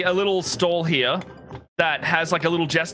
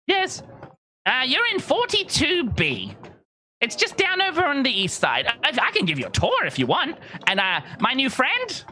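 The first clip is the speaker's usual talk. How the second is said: high, eager tour-guide patter; rushing to help; chatty Belbic; 8 semitones higher than usual. Acted. Belbic offering the party a tour of the market. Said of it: "starts going".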